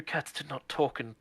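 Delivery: hushed, bewildered whisper; disbelieving whisper. Acted. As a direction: whisper your disbelief to your friend. Akari in disbelief to Asami.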